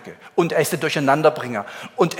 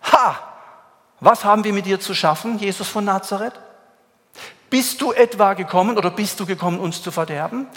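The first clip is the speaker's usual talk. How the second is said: raised, pressing demon cry; shouting loud; 3 semitones higher, 3 dB louder than usual. Acted. Demon in the synagogue cries out loudly at Jesus. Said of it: "der schrie laut".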